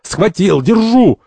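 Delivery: high, rising triumphant cries; excited calling out. Acted. Third grabs the cardinal, excited shout. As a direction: call out that you've got him.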